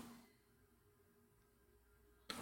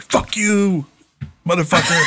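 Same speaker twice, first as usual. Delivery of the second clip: mock yell, pitched up into laughter; retold yelling; 5 semitones higher, slower than usual. Telling a London phone booth story, mock yelling. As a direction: imitate a drunken yell without full force. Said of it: "started yelling at".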